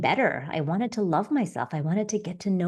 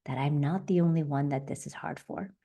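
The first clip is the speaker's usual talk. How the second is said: soft self-question; 3 dB quieter than usual. Shown as a demonstration. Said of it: "And then you wanna add".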